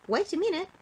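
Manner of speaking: high, loud stop; high loud wait; sudden remembering. Acted. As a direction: halt him as it comes back to her. She suddenly remembers the present.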